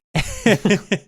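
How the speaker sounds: bright burst of laughter; laughing. Real, not acted. Laughs at the joke.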